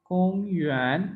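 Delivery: कोंग level, युआन slides upward, slowly; first then rising tone. Shown as a demonstration. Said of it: "कम से शुरू होके ऊपर की तरफ आती है".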